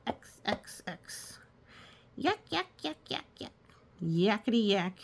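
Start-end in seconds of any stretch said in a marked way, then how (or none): 0.1-1.4 unvoiced whisper of X. 2.2-3.5 high chattering yak. Acted.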